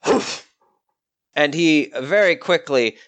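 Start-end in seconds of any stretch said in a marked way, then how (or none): 0.1-0.5 indignant huff; a short angry puff of breath. Acted. Envoy storms out at the reward, indignant huff. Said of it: "in a big huff".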